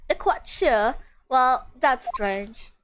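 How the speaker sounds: put-on British accent sliding towards Australian; British accent, drifting Australian. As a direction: attempt British, land slightly Australian. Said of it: "the accent is going slowly into Australian".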